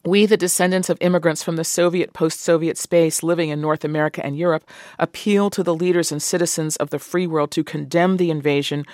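reading a letter aloud. Acted. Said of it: "I just want to read".

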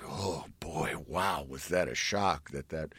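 whisper. Retold or imitated. Wife quietly telling husband.

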